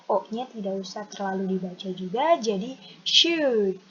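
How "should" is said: "should" said slowly as /ʃud/, no L sound; silent L. Shown as a demonstration. Teacher showing students how to say it, slowly. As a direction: drop the L in "should", short vowel. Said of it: "L-nya tidak usah dibaca".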